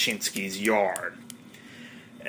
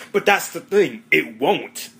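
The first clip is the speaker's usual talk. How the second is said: much higher, louder cheeky answer; goofy high retort; 7 semitones higher, 4 dB louder than usual. Retold or imitated. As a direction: pop it up high like a clueless kid. Kelso retorting to cop.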